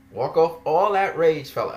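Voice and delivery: sarcastic parroting of a condescending line; mocking quote. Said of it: "as if I'm angry".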